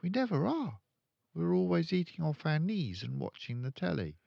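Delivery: put-on high, earnest child; a small girl protesting; little girl voice. Matilda scolding her father, high and earnest.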